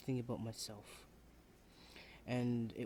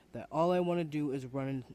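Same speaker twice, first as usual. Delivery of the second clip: frustrated outburst; 7 dB louder than usual. Acted. Student venting at professor.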